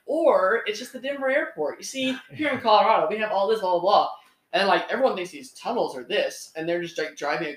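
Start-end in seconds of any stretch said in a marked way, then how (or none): 0.1-3.1 higher-pitched mocking video narrator; lightly imitated sarcastic debunker. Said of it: "making fun of, sarcastically". 3.1-4.1 dismissive imitation of a video presenter; mildly mocking retold patter; sarcastic. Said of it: "making fun of, sarcastically".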